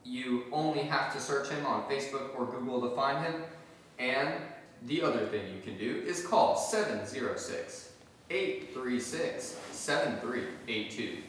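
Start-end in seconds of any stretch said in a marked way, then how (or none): 4.8-11.2 infomercial voice. Pretend. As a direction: read it like a TV ad. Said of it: "How's my infomercial voice?".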